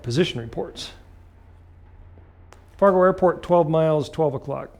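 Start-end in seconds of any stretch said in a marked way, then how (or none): 2.8-4.7 crisp radio call; controller over the radio. Retold or imitated. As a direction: read it like ATC. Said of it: "They start giving me what".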